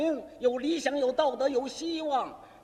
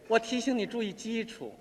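lightly voiced sister, lower, measured reproach; scolding sister; 4 semitones lower than usual. Sister chides her poet brother, lightly mocking reproof. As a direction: gently lecture a younger brother in a lowered voice. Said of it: "可是嘴里头数落我".

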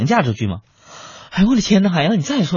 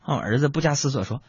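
usual speaking voice

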